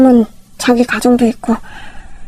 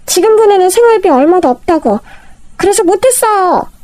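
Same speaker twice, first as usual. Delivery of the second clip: higher, whiny begging sister-in-law; pleading sister-in-law; 6 semitones higher than usual. Acted. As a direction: beg the rich elder sister-in-law for help.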